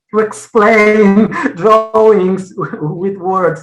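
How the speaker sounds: slow, loud talk while laughing.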